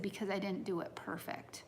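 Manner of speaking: a hint of a hurt child's reply; mild, quiet echo of a crying son; quoting her son. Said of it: "and he said".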